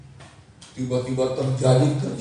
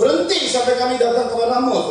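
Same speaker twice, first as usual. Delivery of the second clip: high, loud command to halt; shouted order; 7 semitones higher, 9 dB louder than usual. Acted. Philistines order Jonathan to halt, shouted command. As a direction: holler it across to the intruders. Preacher acts out the enemy's order.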